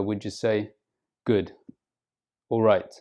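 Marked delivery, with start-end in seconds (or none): 1.2-1.5 a flat, uninterested "Good"; flat intonation. Shown as a demonstration. Non-native speaker answering how they are, flat intonation. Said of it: "respond with a flat intonation". 2.5-2.9 "all right" with no lift, falling on "right"; a flat, uninterested "all right"; flat intonation. Shown as a demonstration. Non-native speaker answering how they are, flat intonation. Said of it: "respond with a flat intonation".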